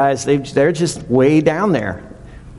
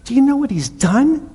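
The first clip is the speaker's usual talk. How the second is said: much higher, louder incredulous mock voice; outraged crowd; 3 dB louder than usual. Townspeople protesting Jesus's visit to the tax collector, high, loud outraged mock voice. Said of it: "they're like".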